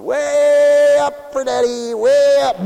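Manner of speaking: put-on high, loud baby talk lifting a child up; slow, sing-song daddy voice; cooing to a baby. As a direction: coo it up at the baby overhead. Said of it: "and I was going".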